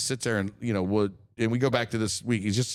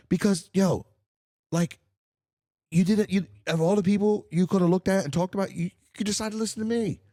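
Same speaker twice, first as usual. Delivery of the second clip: earnest gratitude; 9 semitones higher than usual. Real, not acted. Earnest thanks to listeners.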